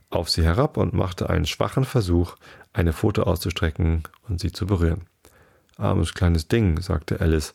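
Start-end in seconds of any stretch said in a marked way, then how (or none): 5.8-6.8 caressing tone. Acted. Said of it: "in liebkosendem".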